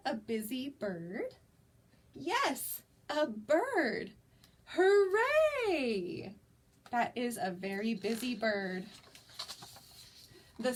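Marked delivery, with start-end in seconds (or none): 4.7-6.4 high, loud happy cheer; excited cheer. Acted. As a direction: cheer it out for the birds. Cheering in picture book.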